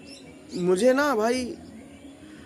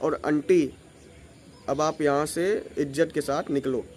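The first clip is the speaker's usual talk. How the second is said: low, cool and firm talking-to; lightly firm, lower voice; tight, firm; 4 semitones lower than usual. Shown as a demonstration. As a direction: put the aunty in her place, coolly. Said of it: "मैं बताता हूँ कैसे बोला था".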